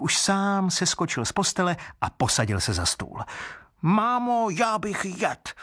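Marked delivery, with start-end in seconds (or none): 3.8-5.5 put-on very high little-child voice, slow and demanding; a hungry wooden baby whining for food; greedy child crying out. A narrator's reading. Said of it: "potom zase křičel".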